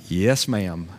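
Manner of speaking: low, subdued obedient reply; mildly put-upon child giving in; dutiful child. Acted. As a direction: answer Mama dutifully, pitched low. Child answers stern mama's order.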